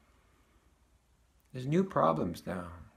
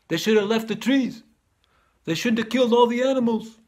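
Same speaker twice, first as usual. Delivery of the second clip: higher, louder, scoffing complaint; indignant friend Frank; 4 semitones higher, 4 dB louder than usual. Retold or imitated. Frank scoffs at the speaker's barren dirt, higher and louder. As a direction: play the friend who thinks it's a waste.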